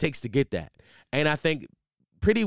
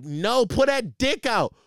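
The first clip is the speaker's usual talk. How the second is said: put-on drunk woman; 7 semitones higher, slower than usual. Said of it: "women get super aggressive".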